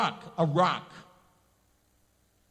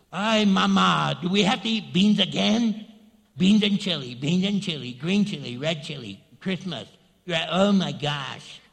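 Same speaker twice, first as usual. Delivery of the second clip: complaining to mama; 3 semitones lower, 3 dB louder than usual. Retold or imitated. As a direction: whine at mama about dinner. Kid complaining to mom about beans.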